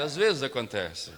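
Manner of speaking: slowed, settled echo of the phrase; slow and soft. Shown as a demonstration. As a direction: let it sink in slowly. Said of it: "Diga pra quem tá perto de você".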